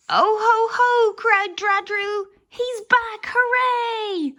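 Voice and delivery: a loud, high hooray of relief; joyful cheer. A narrator's reading. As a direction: burst out cheering. Wizard reappears, joyful cheer.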